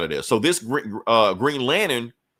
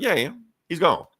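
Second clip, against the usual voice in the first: high mocking voice; 7 semitones higher than usual. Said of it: "They're like".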